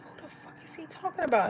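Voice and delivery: high, incredulous retelling; baffled disbelief. Retold or imitated. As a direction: pitch it way up in bewilderment. Retold bewilderment at the caller.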